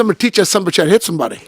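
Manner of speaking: fast, laughing through the threat. Retold or imitated. Telling Buster his plan, laughing fast threat. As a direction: rush it out, cracking up. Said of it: "I said".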